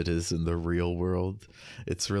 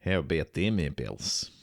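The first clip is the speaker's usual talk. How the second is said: put-on Boston accent; 3 semitones lower than usual. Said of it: "That was my Boston accent".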